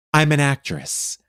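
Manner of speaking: slow, deliberate self-introduction; grand announcement. Retold or imitated. Woman introducing herself to shoppers, slow announcement. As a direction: imitate announcing a profession with weight.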